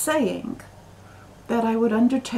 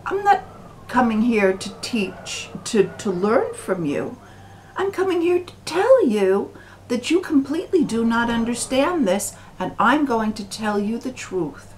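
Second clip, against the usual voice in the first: louder and higher, a hammed-up know-it-all insisting; a deluded outsider scolding Basho's family, overblown and loud; mock indignant outburst; 4 semitones higher, 3 dB louder than usual. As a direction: play the arrogant visitor, voice climbing high and loud. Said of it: "I say".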